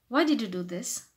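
blunt workplace question; rude direct question. Shown as a demonstration. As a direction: ask for a reason bluntly. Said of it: "That will make you sound rude".

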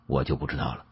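usual speaking voice

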